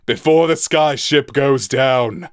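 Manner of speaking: urgent roar over the storm; captain warning Hubble as the ship sinks, roaring. Acted. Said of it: "roared Cloud Wolf".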